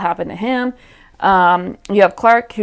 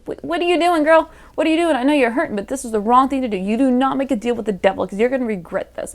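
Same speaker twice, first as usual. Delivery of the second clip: high and pleading, easing down; mock dismay at a character's choice; pleading scold; 4 semitones higher, faster than usual. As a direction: beg the girl to stop, half-mocking. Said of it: "And I'm just like".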